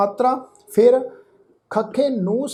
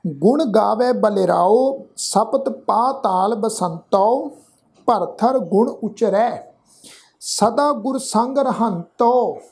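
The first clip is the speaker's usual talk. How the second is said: slow, measured verse with drawn-out vowels; scripture recitation; much slower than usual. Shown as a demonstration. Teacher reciting Gurbani to the congregation, slow measured recitation. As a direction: recite each phrase slowly, pausing between.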